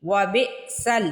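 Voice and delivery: وبئسل with a sharp stop on the hamza; glottal catch. Shown as a demonstration. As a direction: jerk on the ئ in وبئسل. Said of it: "بی پہ دیکھیے جھٹکا لگے گا". (وبئسل میں ہمزہ پر جھٹکا)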